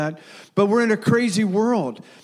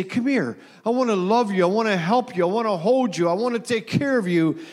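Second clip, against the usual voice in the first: gentle invitation; 3 semitones higher than usual. Retold or imitated. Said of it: "it's an invitation to say".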